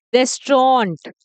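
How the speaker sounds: "रेस्टोरेंट" slowly as res-trawnt; correct pronunciation. Shown as a demonstration. Teacher asking learners to listen, slow falling res-trawnt for "रेस्टोरेंट". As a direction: say "रेस्टोरेंट" slowly in two syllables. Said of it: "मैं क्या बोल रही हूँ".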